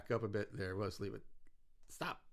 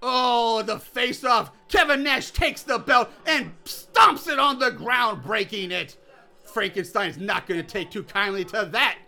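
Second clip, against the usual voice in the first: booming ringside play-by-play, pitched up; wrestling announcer. Pretend. Calling a mock wrestling match for the listeners, booming announcer. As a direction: hype the crowd like a wrestling commentator. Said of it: "I don't know why I'm still doing that".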